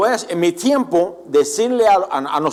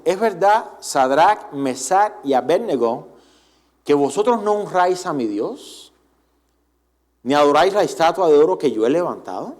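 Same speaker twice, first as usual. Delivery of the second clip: Nebuchadnezzar voice. Retold or imitated. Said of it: "imitar un poco la voz de Nabucodonosor".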